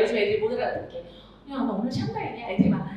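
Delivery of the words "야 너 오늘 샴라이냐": teasing teacher aside. Shown as a demonstration. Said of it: "텐션으로 말해요".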